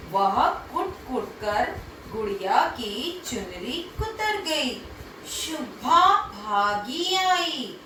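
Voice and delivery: put-on lively storytelling voice for kids; story for children. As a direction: read it out like a bedtime tale. (बच्चों को कहानी सुनाते हुए जीवंत आवाज़ में)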